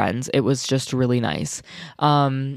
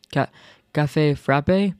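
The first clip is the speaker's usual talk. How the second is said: mock French accent; slower than usual. Shown as a demonstration. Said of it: "tried to speak in a French accent".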